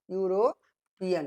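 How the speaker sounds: "यूरोपियन" said slowly in parts; syllable breakdown. Shown as a demonstration. Teacher showing students the opening यू sound, "यूरोपियन" slowly broken up. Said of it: "यू से शुरू हुआ".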